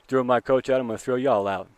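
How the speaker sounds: fired-up pitcher. Retold or imitated.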